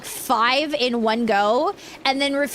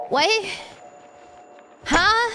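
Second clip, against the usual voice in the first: confused; 9 semitones higher than usual. Real, not acted. Confused about lost thought.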